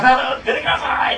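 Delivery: high, loud commanding call; Jesus's loud call. Retold or imitated. Preacher voices Jesus calling Lazarus, high and loud. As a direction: call Lazarus out of the tomb with force. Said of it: "大声で叫んだら".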